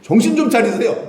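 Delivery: high, loud scolding protest; exasperated plea to see sense; remonstrating. Acted. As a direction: take him to task, voice shooting up. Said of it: "붙잡고 따졌다는 뜻입니다".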